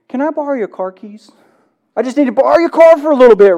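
breezy, quickening ask for the car; casual stranger. Retold or imitated. Pastor imitating a stranger borrowing the car, breezy and quick. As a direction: play it offhand and cheeky.

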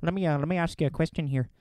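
a clumsy, hammed-up Irish lilt, rising; imitating the Irish guild leader in a bad Irish accent; mock Irish brogue asking a favour. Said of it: "That's a really bad accent".

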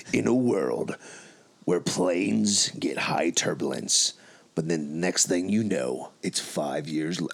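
slow, deep movie trailer voiceover; dramatic trailer narrator. Acted. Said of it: "in your best narrator voice".

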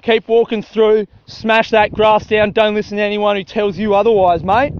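lightly voiced country Australian; mock country bloke. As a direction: play a tough farmer geeing himself up. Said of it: "country people don't actually talk like that".

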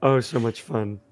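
hoarse, croaky voice; a worn-out croak. Real, not acted. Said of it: "my croaky voice".

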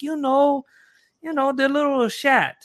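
put-on high-pitched accented host voice; voiced host. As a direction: play the host, insistent and eager. Voicing Rico explaining the word.

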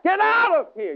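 high, loud shout at the devil; forceful rebuke. Shown as a demonstration. Preacher showing how to resist, a shouted rebuke. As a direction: drive the devil out with a yell. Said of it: "Resist means that".

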